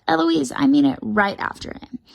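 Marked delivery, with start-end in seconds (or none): 0.1-1.0 higher shouted echo; cheeky copycat yell; mimicking shout. A narrator's reading. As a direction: shout the warning straight back. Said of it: "And I shout".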